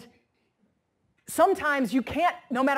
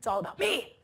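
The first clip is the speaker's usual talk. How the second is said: mock indignant whine. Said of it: "And so I'd be like".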